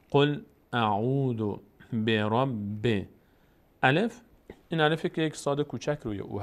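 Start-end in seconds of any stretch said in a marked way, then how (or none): 0.1-3.1 very slow, drawn-out verse reading; slow recitation. Shown as a demonstration. Quran teacher showing the phrase to learners, slow recitation. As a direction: model the verse syllable by syllable.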